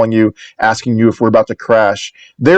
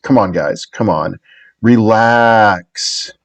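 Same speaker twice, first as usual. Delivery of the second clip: laid-back reassurance; much slower than usual. Retold or imitated. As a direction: shrug it off and tell them to chill. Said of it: "But he said it in such a way".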